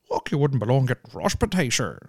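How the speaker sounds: exaggerated Northern Irish accent, swooping in pitch; mimicked Northern Irish accent. Host mocking a viral frostbite interview in a Northern Irish accent. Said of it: "Northern Irish accent?".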